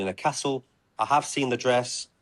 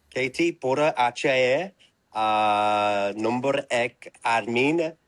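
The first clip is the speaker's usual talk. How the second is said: Indian accent; 3 semitones higher, much slower than usual. Shown as a demonstration. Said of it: "I don't like doing the Indian accent".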